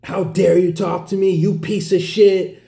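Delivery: high-pitched mock outrage; cussing someone out. Angry woman cussing out the man who called her sweetheart, high mimicked fury. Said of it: "cussing me out".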